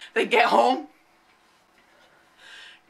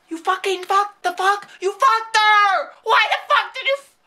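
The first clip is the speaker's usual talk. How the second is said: high, louder disbelieving cry; high shocked yell; shocked outburst; 7 semitones higher, 3 dB louder than usual. Real, not acted. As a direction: burst out in scandalised shock.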